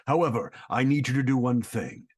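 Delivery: low, menacing whispered threat; Escanor voice. Acted. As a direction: breathe it out low and arrogant. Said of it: "All right, well, Escanor".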